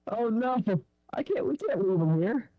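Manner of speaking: muffled voice. Real, not acted. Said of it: "the speaker actually sound muffled as if he was far away".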